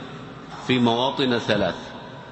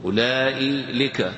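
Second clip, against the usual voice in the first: slow wrong-form demo; 3 dB quieter, slower than usual. Shown as a demonstration. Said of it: "ولا تقول".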